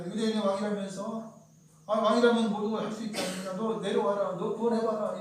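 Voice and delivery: mocking taunt. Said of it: "조롱을 하죠".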